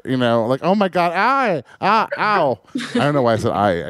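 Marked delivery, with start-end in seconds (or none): 0.6-2.6 hammed-up Puerto Rican accent, high; a mock Puerto Rican wail of pain. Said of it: "I just became more Puerto Rican".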